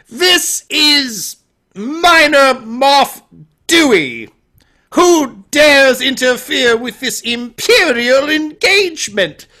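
loud, high, slow mock-British villain; fake British accent. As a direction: declaim pompously in a bad British accent. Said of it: "doesn't have a British accent, but he's trying".

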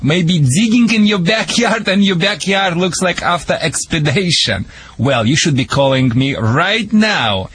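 theatrical show opening. Acted. Dog trainer opening his radio show to troubled owners, theatrical pitch. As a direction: sell it like a mock-grave warning.

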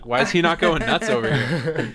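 laughing through the quote; chuckling while asking. Retold or imitated. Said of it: "and I was like".

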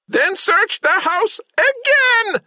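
very high, slow mechanical squeal; squealing robot. A narrator's reading. Samhet orders the servants to search again, squealing. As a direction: squeal it out an octave up, like a straining voice box. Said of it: "squealed Monsieur Samhet".

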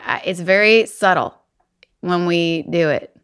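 put-on light Southern belle accent. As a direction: lean into a Kentucky Southern accent. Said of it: "I'm making it more pronounced now".

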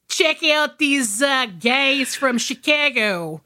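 slow, drawn-out put-on Chicago accent, a Southern twinge creeping in; mock Chicago accent. Podcast host jokes about Chicago actors, bad Chicago accent. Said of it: "was that supposed to be a Chicago accent".

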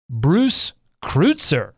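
Kreutzer as KROOT-ser, very slow; deliberate, drawn-out Bruce Kreutzer, said "KROOT-ser"; revealed pronunciation. Shown as a demonstration. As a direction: announce Bruce Kreutzer slowly, Kreutzer with an "oo". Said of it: "never heard this pronunciation".

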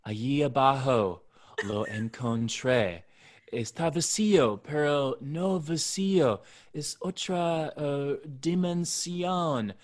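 put-on Spanish read in a heavy American gringo accent. Cohost imitating the gringo's Spanish in a gringo accent. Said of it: "you're saying it in a gringo accent".

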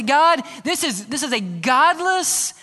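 a hint of an indignant believer; mock complaint. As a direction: plead a frustrated complaint upward. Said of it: "we look at our world and say".

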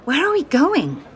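breathless question; winded from the quick pace; out of breath. Acted. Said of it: "sounding a little out of breath".

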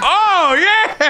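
high, laughing whoop; excited cheer. Real, not acted. Cheering her chug.

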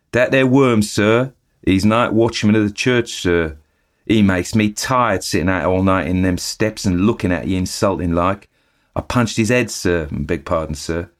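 chatty eager bellboy reporting the news; Cockney bellboy. Acted. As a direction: Thomas the bellboy gossiping to his master. Thomas describes the watchman.

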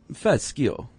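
"fascio" with an Italian accent. Shown as a demonstration. Co-host asks for an accent on the word, Italian accent. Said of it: "say it with an accent".

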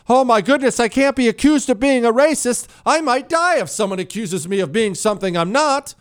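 high, whiny mock panic; whiny mock panic, sarcastic; mocking cowards. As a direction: mimic a spineless coward fretting. Mocking people afraid of racism.

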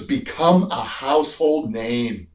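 very slow, weighty mock Arnold voice; imitating Arnold. Arnold telling Tower his life lesson, slow mock Arnold. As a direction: spell it out slowly like Arnold giving advice. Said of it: "He goes".

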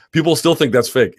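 "still" pushed high and loud; stress on still. Real, not acted. Insisting to viewers that the British accent was real, stress on still. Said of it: "It's one hundred percent not fake".

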